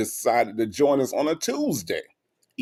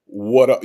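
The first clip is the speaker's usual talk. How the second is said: "what up" pushed out louder, like it's meant; said with heart; 7 dB louder than usual. Shown as a demonstration. Host coaching co-host on the greeting, "what up" with heart. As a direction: lean hard into "what up". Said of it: "say it with some heart".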